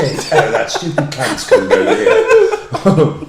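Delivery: slow, hammed-up posh Queen voice; lightly mock the Queen, slowly; Queen impression. Mocking the Queen scolding Trump, slow hammed-up posh voice. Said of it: "what the Queen says".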